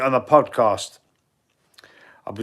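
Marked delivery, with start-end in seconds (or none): 2.3-2.4 whispered aside. Real, not acted. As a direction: lean in and whisper it like a secret. Repeats the announcement as an aside.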